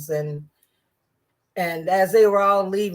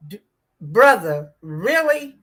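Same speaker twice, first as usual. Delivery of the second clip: incredulous; 4 dB louder than usual. Real, not acted. Disbelief at Byron's remark.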